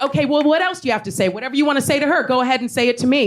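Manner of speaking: high, quick goading; retold challenge. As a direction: act out daring a heckler. Acts out challenging the heckler.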